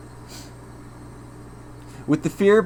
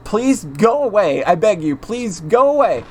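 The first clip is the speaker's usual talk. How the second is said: desperate plea; 5 semitones higher than usual. Acted. Keiichi begging Rena through door.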